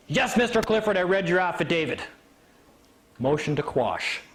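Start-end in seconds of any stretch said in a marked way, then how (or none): 0.1-2.0 higher, put-upon answer; retold exasperated reply; mock exasperation. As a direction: imitate a judge conceding irritably. Judge's exasperated reply acted out.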